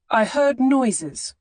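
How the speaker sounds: put-on a frightened child insisting; a child's voice, slow and uneasy; scared little boy.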